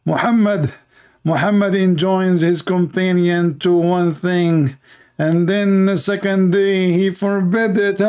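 slow, mocking read of the disbelievers; drawn-out sneering quote; slow mock voice of scoffers.

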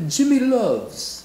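drawn-out name. Pretend.

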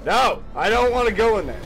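loud and fast, panicked no; panicked shout. Real, not acted. Gamer refusing to fall into the pit, panicked shouting. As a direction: yell it as you're pulled toward the pit.

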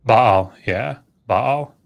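Baal as two syllables, "ba-al", rising; Baal said "bah-al", two clear vowels; pronounced Baal. Shown as a demonstration. Scholar correcting the host's pronunciation, two syllables. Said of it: "So it's Baal, two syllables".

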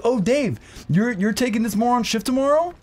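high, sneering manager voice; high mocking manager. Storyteller imitating his snide boss with a high voice. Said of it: "She's like".

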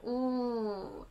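Ooh with lips pushed out like a kiss. Shown as a demonstration. Teacher shows u: lips pushed out like a kiss. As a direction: lips forward as if kissing. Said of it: "Para kang nagkikiss".

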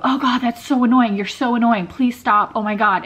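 fed up with a nagging inner voice; annoyed. Acted. Snapping back at her own anxiety, annoyed. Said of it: "what we normally do is go".

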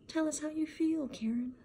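high singsong mock of the counselor; mocking group leader. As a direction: parrot the leader in a sugary mock voice.

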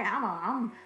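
Maury guest. Retold or imitated. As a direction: ham up a cocky paternity-test guest. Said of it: "What they be saying on Maury?".

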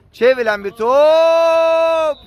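excited commentator call. Real, not acted. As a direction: stretch it out as the shot comes in. (uzatarak heyecanlı spiker anonsu)

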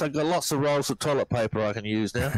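dry, joking sarcasm with a laugh; sardonic. Real, not acted. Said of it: "Excuse my sardonic humor".

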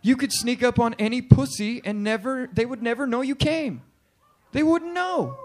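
excited idea. Retold or imitated. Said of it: "I was like".

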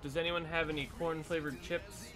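ordinary talk

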